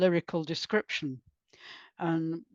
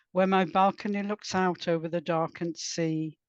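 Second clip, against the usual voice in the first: measured, even narration with pauses between phrases; composed author's reading, phrase by phrase; literary prose reading. Acted. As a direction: read your lyrical prose aloud to listeners. Reads own prose aloud.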